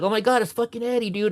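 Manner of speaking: high, thrilled star-struck outburst; excited greeting. Retold or imitated. Rufio thrilled to meet Eddie at the house. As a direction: gush like you can't believe it.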